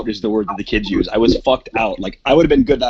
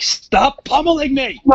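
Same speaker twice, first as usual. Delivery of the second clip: mock yelp; 14 semitones higher, slower than usual. After she bites his lip.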